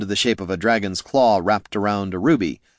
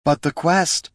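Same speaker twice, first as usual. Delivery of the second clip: raised, higher call ending in a rise; hollering; 8 semitones higher than usual. Acted. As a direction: call out the protest. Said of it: "hollered Loruna".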